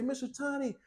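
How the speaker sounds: high, whiny put-on viewer voice; mock complaining commenter. Viewer begging Mister Tiny for a dishwasher, mock whine. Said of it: "before any of you go to the comments and say".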